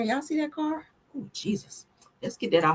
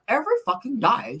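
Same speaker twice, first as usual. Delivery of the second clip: lightly put-on British accent, higher; a playful stab at British pronunciation; mock British accent; 5 semitones higher than usual. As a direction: imitate a British rocker's vowels. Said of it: "he got that British accent".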